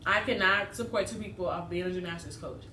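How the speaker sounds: chewing between words; talking while eating. Real, not acted. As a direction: mouth partly full. Seen 5: Holds folded flatbread throughout, bites it mid-speech around 3.3–4.9 and 8.0.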